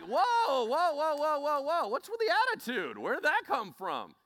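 high, loud, startled protest; taken aback. Acted. Listener objecting to someone's callous attitude, taken aback.

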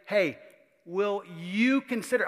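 calling out to the whole group of disciples. Shown as a demonstration. Preacher calls out loudly to the whole group. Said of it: "talking to the whole group".

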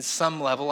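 "some" leaned on before "level"; stress on "some". Real, not acted. Preacher joking about his fitness, stressing "some". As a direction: put the emphasis on the word "some". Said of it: "I emphasize the word some".

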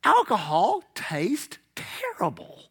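slow, soft, voiceless croak; strained whisper. Acted. Preacher on taste of alcohol, strained mock whisper. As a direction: force it out as if the drink burned. Acts out choking on bad drink.

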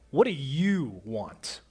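slow, blunt "What do you want?" with a falling end; curt, impatient demand; wrong tone. Shown as a demonstration. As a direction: ask it coldly, as if put out. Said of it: "It's not said in that tone at all".

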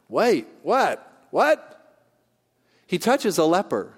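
high, loud disbelieving "wait, what?"; mock shock. Preacher acting a shocked onlooker, high incredulous outburst. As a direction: play the stunned bystander who can't believe it.

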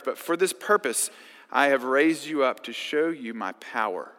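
measured public Bible reading; scripture reading. Acted. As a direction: read the passage with weight. Reads Exodus passage aloud.

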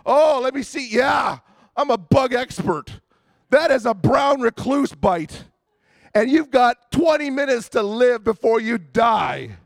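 loud, hammed-up know-it-all yelling; mock alarmist shout. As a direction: shout it like an overeager self-made bug expert. Friends hyping a spider bite.

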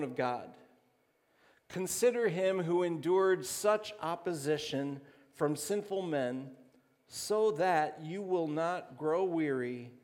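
measured, emphatic Bible recitation; scripture reading. Real, not acted. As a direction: proclaim the verse phrase by phrase. Reads scripture aloud.

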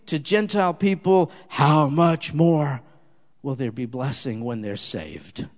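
earnest, measured prayer with swells of fervour; closing prayer. Acted. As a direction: lead the people in heartfelt prayer. Closing prayer led aloud.

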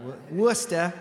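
Worcester in a Boston accent as WOOS-tuh. Shown as a demonstration. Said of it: "My Boston accent is not very good".

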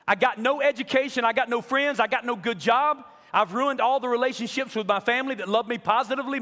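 desperate cry. Retold or imitated. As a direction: beg God at the top of your lungs, broken. Retold desperate roadside prayer to God.

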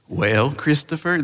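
slow, soft Texan drawl as mom; Texan accent. Retold or imitated. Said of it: "this is my best Texan accent".

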